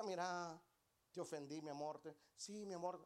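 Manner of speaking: a soft, tender apology between husband and wife. Acted. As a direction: make up gently with your spouse. Spouses reconcile.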